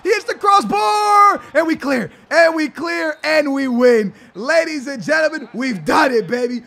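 high, loud commentator shouting over the goal; hyped play-by-play. Acted. Streamer commentates his own goal, high excited shouting. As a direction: call the goal like a stadium announcer.

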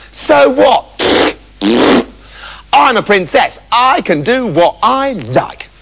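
lightly voiced bratty princess; spoilt princess. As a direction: answer back with spoilt defiance. Spoilt princess answers back.

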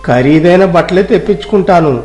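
lordly, condescending village rich man; haughty rich landlord. Acted. (గర్వంగా మాట్లాడే ధనవంతుడు)

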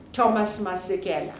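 "Masekela" said the American way, as "MAS-ih-kel"; Americanized "Thomas Masekela", fast; American accent. Real, not acted. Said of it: "I'm doing the American accent".

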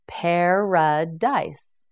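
Paradise stretched out slowly and clearly; slow model word. Shown as a demonstration. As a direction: draw out Paradise so students can follow. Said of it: "teacher models word slowly".

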